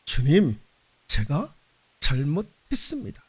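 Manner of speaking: low, soft, contrite prayer; hushed admission to the Lord; humble confession. Pretend. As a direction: drop the voice and confess quietly. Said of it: "그게 아니라".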